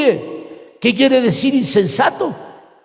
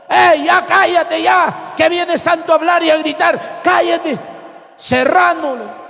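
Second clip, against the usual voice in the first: angry heckling shout; 4 semitones higher than usual. Retold or imitated. Student heckles the preacher on the bus, raised angry shout. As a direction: shout him down.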